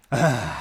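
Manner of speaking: big sighed-out "ah"; deep breath sigh. Shown as a demonstration. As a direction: breathe out fully with an audible sigh. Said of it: "Mais uma vez".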